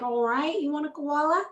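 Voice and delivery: half-hearted Australian accent; badly faked Australian, a tentative go; attempted Australian accent. Shown as a demonstration. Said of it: "do your best Australian accent".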